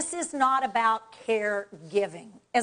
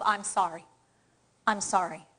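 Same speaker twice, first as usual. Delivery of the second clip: low, contrite little apology; sorry; 5 semitones lower, 3 dB quieter than usual. Shown as a demonstration. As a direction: apologise as if you mean it. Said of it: "if you look sorry while you say".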